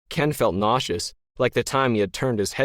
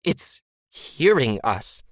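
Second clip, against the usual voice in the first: alien voice; 2 semitones higher, slower than usual. A narrator's reading. Disembodied voice alarmed.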